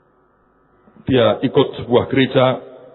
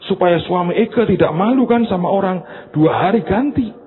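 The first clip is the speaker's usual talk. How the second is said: lightly voiced bragging church lady, higher; bragging socialite; 3 semitones higher than usual. Church lady brags to friends, lightly voiced. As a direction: show off her Paris trip. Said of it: "Yang seorang bilang".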